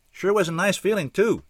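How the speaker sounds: high, stretched by a slight yawn; said around a yawn. A narrator's reading. Chuck reminisces about being dead, yawning. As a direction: talk through a yawn. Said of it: "Chuck said around a yawn".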